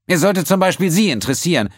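high, loud, superior; prim accountant. A narrator's reading. The accountant answering Quinn, high and superior. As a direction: correct him coldly.

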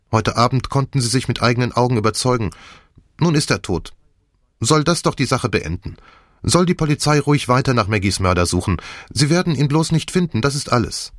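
a hint of a pleading figure; lightly voiced Nick, pleading. Nick argues for silence to Poirot, lightly pleading.

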